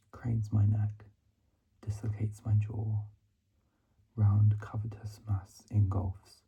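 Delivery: hushed, measured poetry recital; poem reading. Real, not acted. Student reading own poem to listeners, hushed recital. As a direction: whisper the verse, pausing after each phrase.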